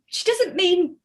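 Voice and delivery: high, slow, words through laughter; cracking up laughing. Retold or imitated. Family explains the dead nanny joke, laughing. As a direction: explain it while you can't stop laughing. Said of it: "we all just cracked up laughing".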